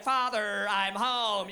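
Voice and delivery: lightly voiced robot, level pitch; robot daughter. Robot daughter home for Thanksgiving greeting dad, mild robotic monotone. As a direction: say it like a polite household android. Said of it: "transition into a fucking appliance".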